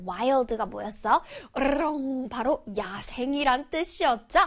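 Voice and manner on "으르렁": rolled, growling animal noise; playful beast growl. Shown as a demonstration. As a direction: imitate a wild animal's growl for children. Imitates a wild beast's growl.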